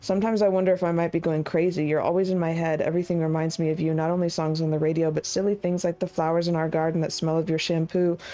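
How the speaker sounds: brisk, even-pitched letter read-through; quick, understated read-aloud. A narrator's reading. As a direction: read the love letter out quickly, with little drama. Reads a love letter aloud.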